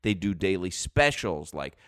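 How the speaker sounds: upbeat radio ad read. Acted. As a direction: sell it like a live radio spot. Live ad read.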